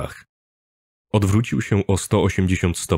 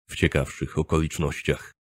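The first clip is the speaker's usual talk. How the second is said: quiet, lower, understated sorrow; sincerely saddened; 4 semitones lower, 8 dB quieter than usual. A narrator's reading. Narrator bidding his friend farewell, mildly saddened. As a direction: let the hope sink into quiet regret. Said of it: "szczerze zasmucony".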